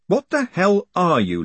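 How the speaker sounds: high-pitched, baffled demand; managed with effort. A narrator's reading. Captive confronting the unknown thing holding him, startled and straining. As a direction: force out a startled question. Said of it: "Lipwig managed".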